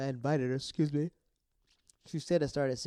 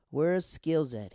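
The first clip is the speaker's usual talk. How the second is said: demanding; 3 semitones higher, 6 dB louder, much slower than usual. Real, not acted. Demanding, drawn out.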